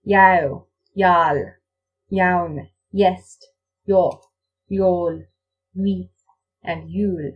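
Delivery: each word starting with a clear y sound; consonant i as y. Shown as a demonstration. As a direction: open every word with a y glide. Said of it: "it sounds like this".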